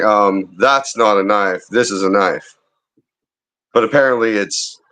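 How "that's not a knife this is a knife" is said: slow quote. Retold or imitated. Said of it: "grew up hearing".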